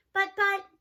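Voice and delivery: sputtering, caught off guard; flustered. A narrator's reading. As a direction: stammer in fluster. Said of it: "totally flustered".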